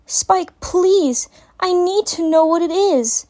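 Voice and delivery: high, insistent mare begging; urgent plea. A narrator's reading. Twilight urgently begs Spike to tell her. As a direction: press him hard to answer. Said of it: "she repeated herself".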